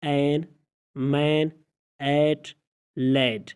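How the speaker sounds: این، مین، ایٹ، لیڈ each with an "ae" vowel, word by word; short A as "ae". Shown as a demonstration. Teacher reading examples, این، مین، ایٹ، لیڈ one at a time with "ae". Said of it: "اے کی آواز کبھی اے آتی ہے".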